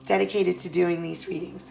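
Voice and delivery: hoarse, tired voice going; voice giving out. Real, not acted. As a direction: speak through a failing hoarse voice. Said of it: "I'm losing my voice".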